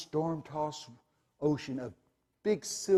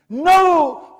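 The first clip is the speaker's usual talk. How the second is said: high, loud scream of no; loud desperate no; 15 dB louder than usual. Retold or imitated. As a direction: scream it in protest. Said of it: "I'm screaming".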